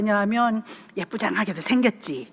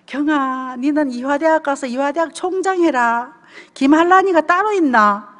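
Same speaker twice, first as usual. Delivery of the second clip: a fond, insistent push that swells louder at the end; a Gyeongsang mother driving her daughter on, building up; mother's pushy urging; 3 semitones higher, 4 dB louder than usual. Retold or imitated. Mother urging her daughter toward Ewha, growing loud and insistent. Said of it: "늘 그러셨어요".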